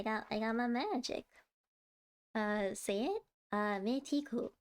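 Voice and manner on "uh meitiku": careful try at a Hindi reply in a Hindi accent; sounding out Hindi in a hesitant Hindi accent; attempted Hindi accent. Real, not acted. Answering a chatter in Hindi with a self-conscious Hindi accent. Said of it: "that's my terrible accent".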